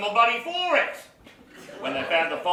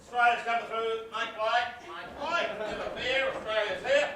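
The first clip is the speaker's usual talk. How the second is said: boisterous announcement; 3 semitones higher than usual. Acted. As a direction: announce yourself like a proud Aussie hero. Aussie barging in proudly.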